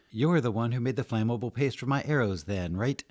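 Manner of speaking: put-on high, loud, curious young woman; young woman asking. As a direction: ask it brightly with a rising check at the end. New young woman asks Frost eagerly.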